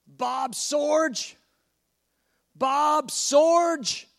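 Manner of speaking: mock clerk calling a passenger; calling out a name. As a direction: call the name to get attention. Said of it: "She's getting exasperated".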